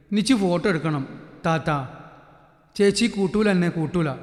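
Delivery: a hint of a sulking little girl; sulky child. Ponnu tells her brother, mildly sulking. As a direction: pout and complain. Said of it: "പരിഭവത്താൽ".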